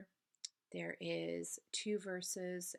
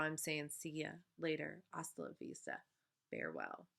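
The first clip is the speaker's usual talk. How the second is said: rhythmic slam poetry, running on through rhymes; spoken-word poem. Acted. Poet reads verse to an ex who lied, rhythmic spoken word. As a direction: ride the rhymes in an even recital.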